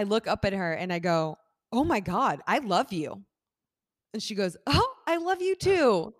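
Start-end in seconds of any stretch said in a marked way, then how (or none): 1.7-3.2 lightly re-enacted fangirl gush; retold starstruck confession. Re-enacting gushing at the actress. 4.7-6.1 very high, drawn-out thank-you voice; high-pitched gracious reply, acted out; actress's sweet reply. Voicing actress's polite reply.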